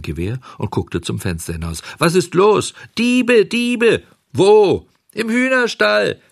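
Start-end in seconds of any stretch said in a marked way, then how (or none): 2.0-6.2 high alarmed shouts; shouting. Acted. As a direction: call out across the yard. Nächtliches Rufen, Diebe gemeldet. (aufgeregtes Rufen)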